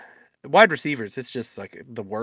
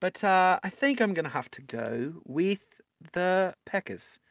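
put-on Australian-tinged British accent; botched British accent drifting toward Australian; higher, halting mock Australian accent; British accent slipping into Australian; 6 semitones higher than usual. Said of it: "I'm just an Australian accent now".

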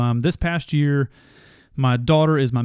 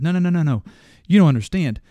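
rising insistence; 4 semitones higher, faster than usual. Real, not acted. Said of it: "I'm about to go off on this".

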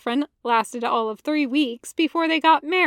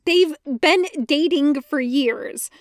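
huffing Anakin; 3 semitones higher, 4 dB louder than usual. Acted. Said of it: "Anakin huffs".

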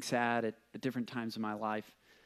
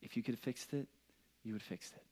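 softer, gently reassuring the listener; gentle reassurance; 8 dB quieter, faster than usual. Real, not acted. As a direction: say it softly to someone who is hurting. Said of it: "let me just say".

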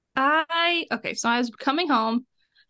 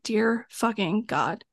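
exasperated inner groan; 2 semitones lower, much slower than usual. Retold or imitated. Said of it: "I'm like".

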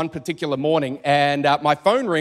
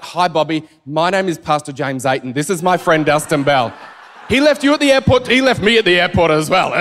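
laughing tease; 2 semitones lower, 4 dB louder than usual. Pretend. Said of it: "I'm gonna be like".

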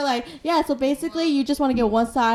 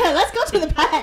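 put-on playful Boston accent; "park" as "pahk"; 3 semitones higher than usual. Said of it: "talk like that".

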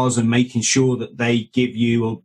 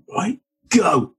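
commander's order; 7 semitones higher than usual. Retold or imitated. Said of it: "your Brit commander just turns and goes".

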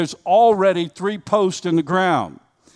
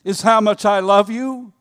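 voice of God; 3 semitones higher, 4 dB louder than usual. Acted.

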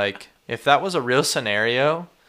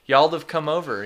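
Texan drawl "Y'all'd have"; 4 semitones higher than usual. Shown as a demonstration.

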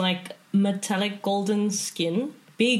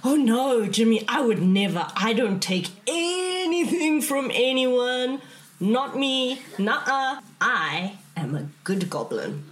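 innocent goblin voice; 4 semitones higher than usual. Acted. Goblin protests innocence to Jimmy.

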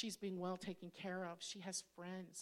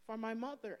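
laughing confession; 8 semitones higher, 8 dB louder than usual. Retold or imitated. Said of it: "I was like".

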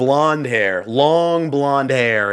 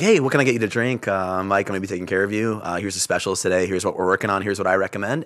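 softer, lower customer-service patter; fake server voice; 5 semitones lower, 4 dB quieter than usual. Shown as a demonstration. Waiter greeting a table on a bad day, soft fake politeness. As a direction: run through the table script on autopilot. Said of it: "you have to be fake".

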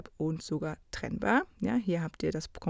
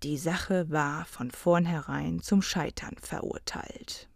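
dramatic; 3 semitones lower than usual. Shown as a demonstration. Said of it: "Es geht natürlich auch dramatischer".

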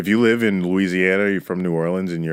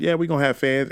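quoting Jerry Jones; 8 semitones higher, faster than usual. Retold or imitated. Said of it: "and he said".

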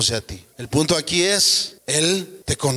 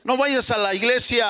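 a touch higher, mock tempter voice; tempting satanic voice; 8 semitones higher than usual. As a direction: lightly play the devil whispering doubts. (voz tentadora del diablo, apenas actuada)

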